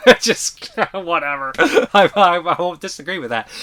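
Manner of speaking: high-pitched, laughing through the words; helpless giggling at your own bad accent. Real, not acted. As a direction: crack up while trying to talk. Laughing at his mocked accent.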